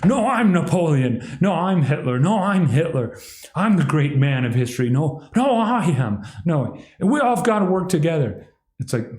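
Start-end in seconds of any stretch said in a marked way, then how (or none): 0.0-1.2 higher, hammed-up bragging; mock everyone claiming to be great; higher mocking boast; mock grandiose claimant. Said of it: "everyone's like". 1.4-8.5 higher, hammed-up bragging; mock everyone claiming to be great; higher mocking boast; mock grandiose claimant. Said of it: "everyone's like".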